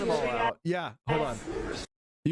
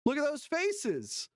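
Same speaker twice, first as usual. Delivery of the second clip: slow amazed; 9 semitones higher, slower than usual. Real, not acted. Stunned at clip.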